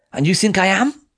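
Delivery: put-on cold, cutting young woman; young French woman. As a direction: voice a guarded French girl. Colette's cold reply.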